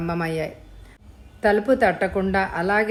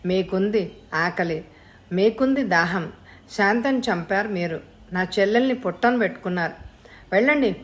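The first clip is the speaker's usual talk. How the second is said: angry outburst. Acted. Son lashing out at father.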